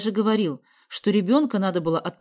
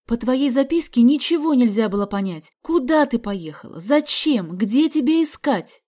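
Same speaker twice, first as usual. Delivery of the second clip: louder, higher wailing reproach; mother lamenting to daughter, loud; 6 semitones higher, 8 dB louder than usual. Acted. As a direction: wail out the worry. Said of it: "запричитала мама".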